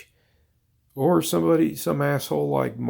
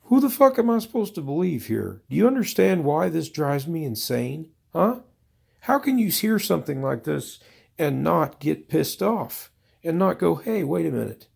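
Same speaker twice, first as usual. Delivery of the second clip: exasperated rant; 3 semitones higher than usual. Retold or imitated. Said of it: "And I said".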